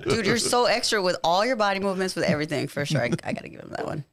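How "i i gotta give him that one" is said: quick whispered aside. Real, not acted. Quick aside, conceding the point.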